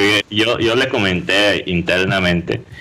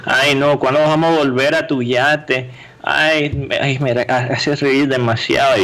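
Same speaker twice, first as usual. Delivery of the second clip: flirty woman; 5 semitones higher than usual. Retold or imitated. Imagined flirting woman voiced.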